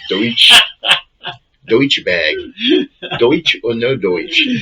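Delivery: mock the actor's accent drifting to New Jersey; lightly voiced movie star who has lost his German accent. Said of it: "he started speaking like".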